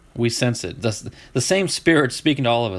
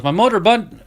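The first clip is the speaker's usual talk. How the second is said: higher, louder hick drawl, broken off; Southern drawl attempt; 8 semitones higher, 4 dB louder than usual. As Dale Earnhardt Junior in the pits, Southern drawl. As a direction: start a thick Southern "My motor". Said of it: "And he goes".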